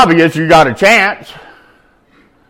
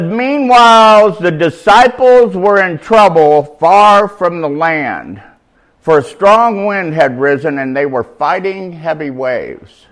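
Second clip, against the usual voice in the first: scripture reading. Acted. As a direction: read the verse deliberately. Reads scripture aloud.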